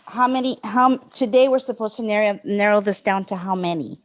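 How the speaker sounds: speaking up. Real, not acted. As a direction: raise your voice so they can hear. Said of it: "I couldn't hear you".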